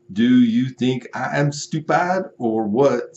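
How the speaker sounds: hammed-up outrage at the runaround; mock furious customer. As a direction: buyer ranting at the seller, hammed-up fury.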